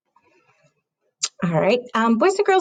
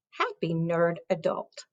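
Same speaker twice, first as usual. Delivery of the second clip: whisper; 3 semitones lower, 5 dB quieter than usual. Shown as a demonstration. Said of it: "whispered line".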